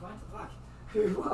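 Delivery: slow drawn-out retold disbelief; stunned disbelief. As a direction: stretch it out in shock. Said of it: "I was like".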